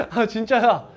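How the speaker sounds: amused, laughing assurance; laughing insistence. Real, not acted. Teacher insisting to students the symbol's name is real, laughing. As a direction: say it through a laugh.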